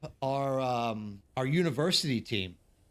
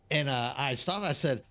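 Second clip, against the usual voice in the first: ordinary talk, nothing marked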